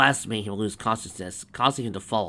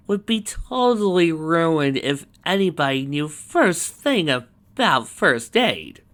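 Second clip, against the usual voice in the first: excited aside; 7 semitones higher, 5 dB louder, slower than usual. Real, not acted.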